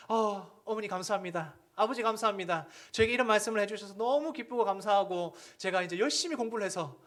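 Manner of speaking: put-on high, loud sugary thanks of an ideal child; mock grateful child. Imagined child thanking parents for nagging, hammed-up and sweet. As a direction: play the impossibly grateful kid. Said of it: "이러는 자녀".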